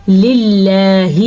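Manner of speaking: للہ held long and light, thin ل; thin Allah. Shown as a demonstration. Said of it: "لفظ اللہ کو باریک پڑھنا ہے". (للہ کو باریک اور لمبا پڑھیں)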